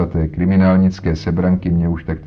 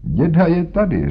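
higher, playful reveal of the trick; amused reveal; 10 semitones higher than usual. Acted. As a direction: show off the disguise with glee. Holmes reveals disguise.

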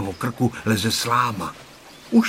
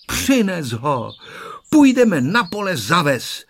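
put-on loud, higher cheer of children; glad, lifted children's chorus voice; rejoicing; 5 semitones higher, 4 dB louder, slower than usual. A narrator's reading. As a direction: cheer it out joyfully. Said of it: "radovali se děti".

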